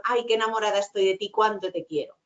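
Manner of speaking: loving, coherent tone. Shown as a demonstration. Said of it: "la coherencia estaría con".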